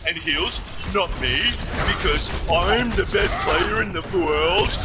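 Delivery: a hint of a whining braggart; lightly mocking whiny teammate voice; mocking whiny impression. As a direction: mimic him as a smug whiner. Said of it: "that's how you fucking sound".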